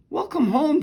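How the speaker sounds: high, bright sing-song welcome; mother greeting her daughter warmly, sing-song. A narrator's reading.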